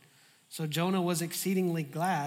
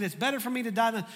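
dramatic Jonah; 5 semitones higher, 4 dB louder, faster than usual. Retold or imitated. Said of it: "there's that drama again".

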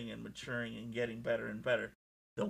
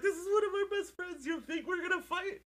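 much higher, put-on voice of a wrestler; a cheeky imitation of a wrestler teasing the crowd; mock wrestler voice; 3 dB louder than usual. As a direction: play the buddy hugging his friend, hammed up. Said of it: "He's like".

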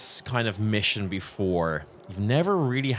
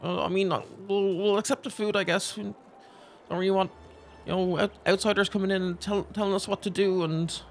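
put-on high, defiant old woman voice, much higher; proud villager woman; 11 semitones higher than usual. Game master voicing a proud old woman to the soldiers. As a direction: play the proud old woman refusing outside help. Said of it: "being like".

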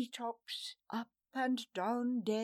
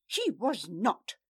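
louder, forceful denial; raised protesting cry; 5 dB louder than usual. Acted. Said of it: "Farewell cried".

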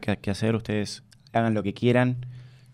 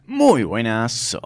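drawn-out YouTuber intro with held vowels; sing-song catchphrase greeting. Shown as a demonstration. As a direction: stretch each phrase out in a slow sing-song. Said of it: "Y eras con cantito y todo". (saludo con cantito, alargando las vocales)

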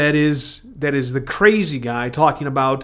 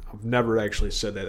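faster, much softer repeat; quick muttered repeat; 6 semitones lower, 7 dB quieter, faster than usual. Real, not acted. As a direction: toss it off under the breath. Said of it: "repeats line".

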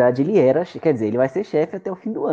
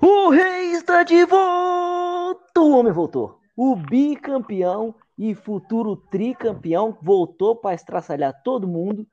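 put-on Spanish accent Portuguese; 7 semitones higher, slower than usual. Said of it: "Sotaque espanhol".

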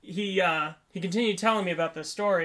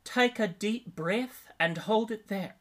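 slow, higher Australian machine voice; Australian accent; 4 semitones higher, much slower than usual. Retold or imitated. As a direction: imitate a calm Australian recorded instruction, drawn out. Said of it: "it's an Australian voice".

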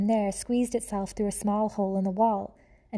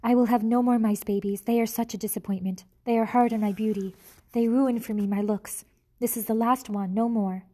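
put-on louder, vain French-accented decree; French proclamation; 4 dB louder than usual. Antoinette refusing more babies, vain French accent. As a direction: declare it like a French diva. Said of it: "proclaimed Antoinette".

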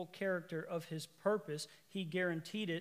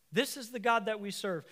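higher, louder repeat; rising emphasis; 4 semitones higher, 5 dB louder than usual. Real, not acted. Preacher proclaiming to the congregation, louder. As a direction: lift it up the second time.

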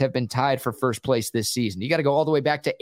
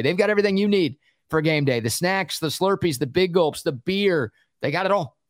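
higher, fast, pitchman energy; hyped ad read; 4 semitones higher than usual. Shown as a demonstration. Host repeats his own line as a pumped-up 7-Eleven ad. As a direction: sell it like a game-day commercial. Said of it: "repeats own line as ad".

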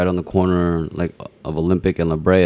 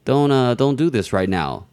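higher pitched mock indignant rant; mock outburst; 5 semitones higher than usual. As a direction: replay the outburst, half-mocking. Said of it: "And I was like".

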